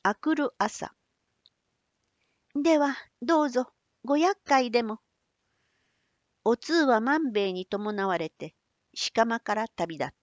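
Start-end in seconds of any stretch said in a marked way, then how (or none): 2.5-5.0 put-on young woman voice. Otsu departs politely.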